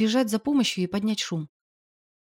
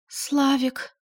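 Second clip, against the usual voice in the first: испуганно, выше обычного; робко окликнуть мужа; дрожащим голосом; 6 semitones higher than usual. A narrator's reading. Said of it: "Дрожащим голосом она спросила". (испуганная Валюшка зовёт мужа, выше)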